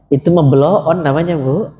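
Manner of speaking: "blow on" said bluntly, the rising "mah" pressing the point; a rough, blunt call of "blow on". Real, not acted. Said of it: "Ustadz kasar banget ngomongnya". ("blow on" diucapkan kasar dan blak-blakan)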